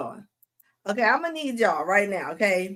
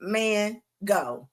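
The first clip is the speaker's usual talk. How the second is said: slow dog voice; much slower than usual. Retold or imitated. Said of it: "The dog is like".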